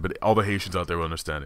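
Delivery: usual speaking voice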